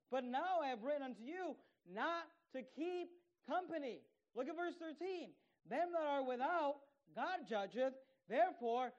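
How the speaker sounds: loud, slow, pounding scripture reading; fiery preaching. Acted. Pastor thundering verses at his congregation, loud and slow. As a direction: preach it to the rafters, word by word.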